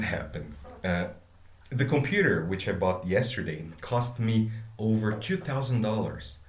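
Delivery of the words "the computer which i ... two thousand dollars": tiny pause before and after "which I bought yesterday"; brief breath around the "which I bought yesterday" aside; micro pauses. Shown as a demonstration. Teacher demonstrating comma pauses to students. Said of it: "So we include a, a micro pause".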